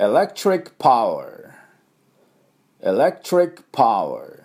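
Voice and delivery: エレクトリック spoken carefully as English "electric"; エレクトリック said clearly for students to copy; model for repetition. Shown as a demonstration. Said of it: "私の後ついていきましょう". (お手本の「エレクトリック」)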